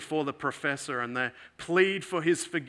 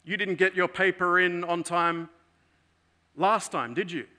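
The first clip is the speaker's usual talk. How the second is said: stern professor; 4 semitones higher, 3 dB louder than usual. Retold or imitated. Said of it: "So the professor says".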